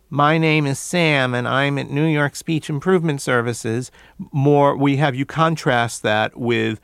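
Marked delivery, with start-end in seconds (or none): 0.1-3.9 nasal voice. Shown as a demonstration. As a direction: push the words out through your nose. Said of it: "by forcing your speech more through your nose".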